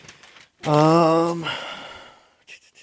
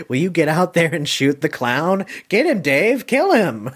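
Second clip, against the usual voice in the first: higher, louder yelling at his partner; urging shout; 5 semitones higher, 4 dB louder than usual. Retold or imitated. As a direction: egg him on to shoot the clown, loud and high. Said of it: "and Mike says".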